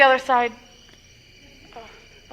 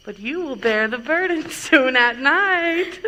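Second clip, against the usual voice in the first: teasing, laughing innuendo; bawdy chuckle. Acted. Nurse teasing girl about wedding night, bawdy chuckle. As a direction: let a laugh into the sly joke.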